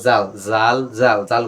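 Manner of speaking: "জাল, জাল" as two even beats to time a stretch; said twice evenly. Shown as a demonstration. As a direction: count out the length with "জাল, জাল". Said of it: "গবার উচ্চারণ করছি দুইবার". ("জাল, জাল" সমান তালে দুইবার)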